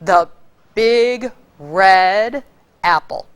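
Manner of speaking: big red lifted and leaned on; savoring big red apple; stressed adjectives. Shown as a demonstration. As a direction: punch big red, then drop on apple. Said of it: "is when you have adjectives".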